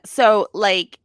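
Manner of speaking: ditzy know-it-all voice; playing the clueless speaker; mocking impression. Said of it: "I need to start talking like this woman".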